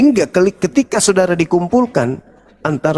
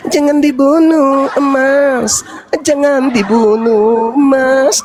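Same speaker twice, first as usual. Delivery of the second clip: slow, drawn-out devil wheedling; devil's cry; 6 semitones higher, much slower than usual. Acted. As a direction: plead insincerely, stretching the words. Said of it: "Iblisnya teriak". (iblis merayu pura-pura, mendayu-dayu)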